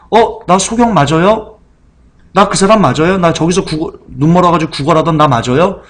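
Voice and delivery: as if he can't believe his own eyes; amazed healed man. Retold or imitated. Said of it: "관훈이가요, 얘기합니다".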